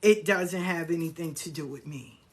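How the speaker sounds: polite, gentle brush-off; kindly let-down. Shown as a demonstration. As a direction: turn them down kindly, softening to the end. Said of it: "you just kindly say".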